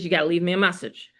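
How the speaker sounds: fast, light scold; quick mock scolding. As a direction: rattle it off like a mock reprimand. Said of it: "I scolded him".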